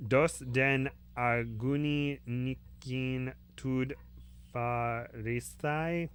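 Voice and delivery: slow muttered bird incantation; muttered tongues. Acted. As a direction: drag out strange syllables, muttering. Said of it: "it muttered".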